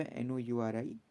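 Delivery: letter-by-letter spelling for students; spelling aloud to class. Shown as a demonstration. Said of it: "क्या याद रखना है यहाँ पे?".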